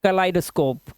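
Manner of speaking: "kaleidoscope" with an eye sound in the second syllable; teacher's careful model of "kaleidoscope", LIE in the middle; long I sound. Shown as a demonstration. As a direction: say "kaleidoscope" as kuh-LIE-duh-scope. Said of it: "यहाँ पर आई की आवाज".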